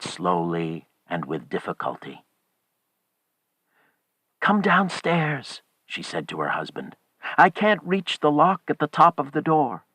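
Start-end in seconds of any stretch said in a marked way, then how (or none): 4.4-5.6 high, drawn-out call. A narrator's reading. Wife calls husband down to help, high call. 7.4-9.8 high-pitched complaint called out; urgent calling. A narrator's reading. Wife cannot reach lock, calls husband urgently.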